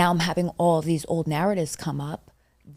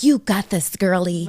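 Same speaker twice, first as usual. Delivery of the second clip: cheesy chatbot cheer; 3 semitones higher, 5 dB louder than usual. Retold or imitated. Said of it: "'Cause I don't want it to be like".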